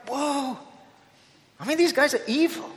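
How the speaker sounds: reluctant Jonah. Retold or imitated. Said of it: "and he's like".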